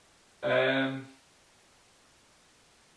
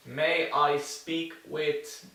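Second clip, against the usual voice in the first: slow, careful polite request; formal request; much slower than usual. Shown as a demonstration. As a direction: ask politely, slowly. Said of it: "Esto es formal". (pregunta formal y lenta)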